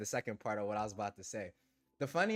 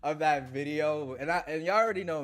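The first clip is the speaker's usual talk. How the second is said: laughing hard; 4 semitones higher, 5 dB louder than usual. Real, not acted. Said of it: "I'm crying 'cause I'm laughing so hard".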